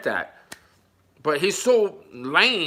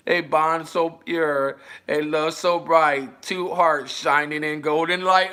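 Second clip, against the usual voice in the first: slow, tender recital of the rhyme; slow poem reading. Shown as a demonstration. Reading the sappy poem aloud. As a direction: recite it slowly like a greeting card. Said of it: "I'm gonna read it again".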